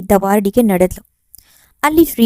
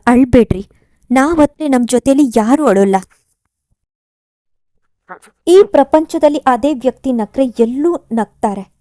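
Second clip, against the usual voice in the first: louder, strained with sorrow; grieving voice; 4 dB louder than usual. Acted. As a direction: pour the grief out loud. Kumuda and Chandu share grief. (ದುಃಖದ ದನಿ, ಜೋರಾಗಿ)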